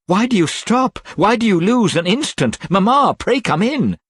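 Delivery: high, loud, anxious pleading; frightened urging. A narrator's reading. Kate begging her mother to come inside, afraid. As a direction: hurry her mother in, panicked.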